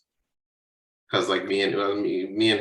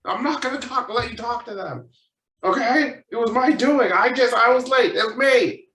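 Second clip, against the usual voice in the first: high, loud, exasperated refusal; acted-out teenage outburst; indignant protest; 14 semitones higher, 5 dB louder than usual. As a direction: argue back at your parents, voice pushed way up. Retold protest to parents.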